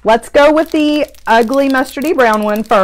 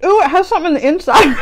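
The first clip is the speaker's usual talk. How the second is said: surprised; 6 semitones higher, much faster than usual. Real, not acted. Surprised while chewing gum.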